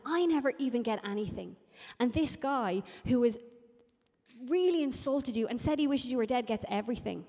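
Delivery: acted-out wounded grievance; indignant complaint. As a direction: protest the unfairness with heavy emphasis. Voices the resentful older brother.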